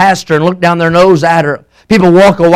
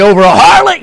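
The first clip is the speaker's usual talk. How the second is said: sudden raised outburst after hushed telling; mock incredulity. Preacher voicing a listener's objection to grace, mock incredulity. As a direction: burst in as a scandalized objector.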